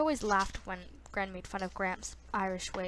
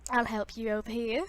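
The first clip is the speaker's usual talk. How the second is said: raised voice hailing a customer; calling out; 5 dB louder than usual. Acted. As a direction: call over from the other till, a bit louder. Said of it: "I heard a voice call out".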